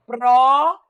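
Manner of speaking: "própria" em pró-pria, com o pró forte e alongado; separando em sílabas. Shown as a demonstration. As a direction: segure e reforce a primeira sílaba de "própria". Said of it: "a sílaba tônica tá aqui". ("própria" silabada devagar, tônica bem marcada)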